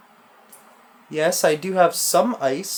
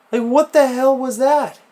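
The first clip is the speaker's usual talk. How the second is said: slow, laughing and much higher; nervous laughter; 8 semitones higher, 5 dB louder than usual. Real, not acted. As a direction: laugh off the fright in disbelief. Nervous laughter after a scare.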